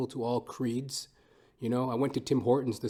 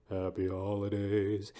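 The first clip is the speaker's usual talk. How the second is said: mock holiday greeting; 4 semitones lower, 4 dB quieter, slower than usual. Low drawn-out holiday greeting.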